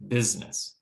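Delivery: "business" in two syllables, BIZ-niss; middle vowel dropped. Shown as a demonstration. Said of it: "reduced so much that we don't hear it".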